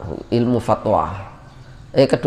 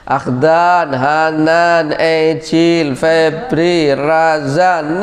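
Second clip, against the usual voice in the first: calling names; much slower than usual. Retold or imitated. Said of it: "panggil-panggil setiap hari".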